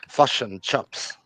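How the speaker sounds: put-on heavy Kiwi accent, slow and drawn out. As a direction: draw it out in a thick New Zealand accent. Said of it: "they got that real Kiwi".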